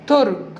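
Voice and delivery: ترج with t replacing the initial b of برج; sound substitution. Shown as a demonstration. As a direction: say ترج, a child's t-for-b swap. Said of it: "قال بدل الباء أي حرف تاني".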